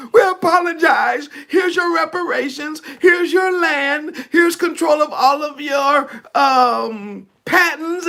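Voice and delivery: mock the government groveling over the marches. Preacher mocking the government's fake repentance, hammed-up high voice. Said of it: "the government gonna be like".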